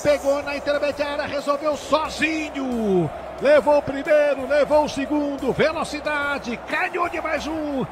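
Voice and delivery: fast, excited live play-by-play; brazilian football narration. Real, not acted. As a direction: call the goal replay like radio. Live radio football commentary. (narração de futebol no rádio)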